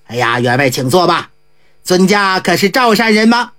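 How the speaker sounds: lightly voiced eccentric monk greeting the host. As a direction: drop into the monk's relaxed voice. Ji Gong voiced by narrator.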